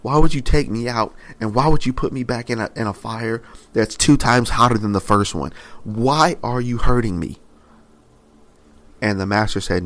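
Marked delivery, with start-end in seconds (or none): 0.0-7.4 desperate pleading. Retold or imitated.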